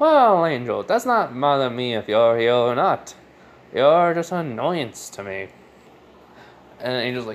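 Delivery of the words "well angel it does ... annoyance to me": put-on broadcast-style radio announcer voice. Retelling his reply to Angel, back in the Radio Demon voice. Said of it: "he goes back to the radio demon voice".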